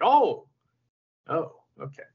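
loud "Oh" then whispered "okay"; startled, then give in under your breath; surprised then resigned. Retold or imitated. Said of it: "he's like".

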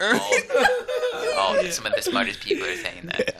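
Donald Trump impression. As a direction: boast like Trump, cracking up. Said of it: "I can do a good Donald Trump".

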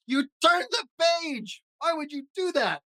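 shocked outcry. Acted. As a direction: gasp it out, appalled. Grover dismayed page turned.

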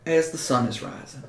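slow, emphatic Southern mayor warning; Southern accent. Acted. Mayor warns Manu they come at dawn, Southern accent. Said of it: "gotta go back to being Southern".

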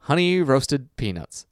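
slow, rising to a high squeal on Ingredients; Homer reading aloud. Retold or imitated. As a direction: read it out, then squeal the last word. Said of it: "the delivery on this is so funny".

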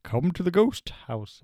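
spooky voice. Acted. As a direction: welcome them in like a ghost house host. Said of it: "I like my spooky voice".

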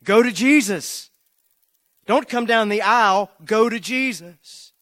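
loud, high commanding shout at the crowd; yelling at the people coming forward, loud and sharp; preacher yelling. Retold or imitated. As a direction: bellow it down the aisle like a fed-up preacher. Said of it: "he yells back at them".

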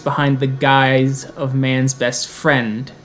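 put-on thick Spanish accent, solemn; heavy Spanish accent, grave and measured. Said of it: "with a very thick Spanish accent".

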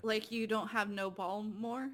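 "Baltimore" as "Bawlmore", rising into a question; swallowed middle. Retold or imitated. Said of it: "they say Baltimore".

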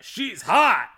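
sudden loud high exclamation; mock Doyle gushing over a photo; excited leer. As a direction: blurt it out like a smitten guy. Doyle reacting to the picture.

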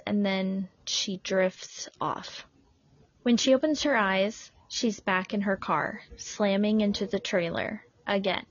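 measured, deliberate storytelling with pauses; story narration. A narrator's reading. Host reading a crash story, measured narration. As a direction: narrate it in careful separate phrases.

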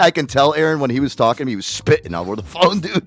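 ordinary talk

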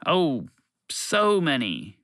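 slow and unhelpfully vague. Acted. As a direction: stretch "so many" out airily. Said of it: "the creature said unhelpfully".

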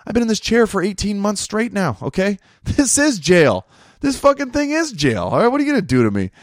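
hammed-up grumpy codger taunting; old man in a chair. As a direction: play a defiant old guy who can't be punished. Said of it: "He's like".

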